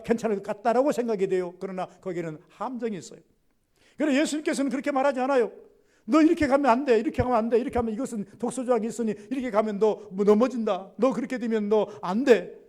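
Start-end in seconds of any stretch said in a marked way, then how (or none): 6.1-12.6 a firm, raised voice of warning; stern warning. Acted. Jesus warns his disciple: firm, raised warning. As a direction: warn him off this path.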